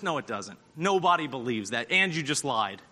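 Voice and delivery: dropped, very soft and low correction; deadpan quiet retort; low flat rebuttal. Real, not acted. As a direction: cut the excuse down quietly. Preacher rebuts excuse, dropped voice.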